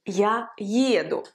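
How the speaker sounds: еду slow, stressed on its first vowel. Shown as a demonstration. Teacher showing the accent in Я еду, first-vowel stress. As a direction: lean on the opening е of еду. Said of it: "l'accent sera sur cette première voyelle yé".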